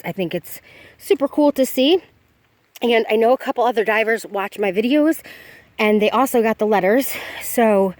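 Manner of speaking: breathless, catching her breath; winded between phrases. Real, not acted. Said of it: "and I'm out of breath".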